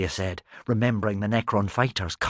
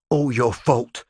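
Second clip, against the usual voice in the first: seething; 4 semitones higher, 4 dB louder, slower than usual. A narrator's reading. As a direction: mutter it through clenched anger. After breaking free, glaring.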